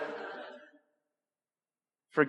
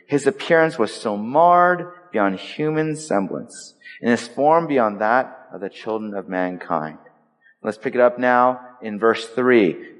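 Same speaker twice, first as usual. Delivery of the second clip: solemn scripture reading. Acted. Preacher reads Isaiah to the congregation, solemn and lifted. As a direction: read the verse with weight and gravity.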